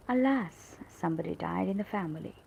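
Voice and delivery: mild demonstrated lament; sad exclamation. Shown as a demonstration. Teacher showing what we say when sad, mildly sad exclamation. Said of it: "When we are sad, we said".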